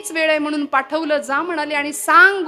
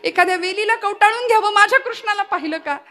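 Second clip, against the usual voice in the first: a hint of Yashoda's desperate asking, higher; frantic mother; 5 semitones higher than usual. Yashoda asking for her lost Krishna, mild frantic. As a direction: search for him anxiously. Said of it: "वेड्या पिशव्यासारखी धावत फिरतीये".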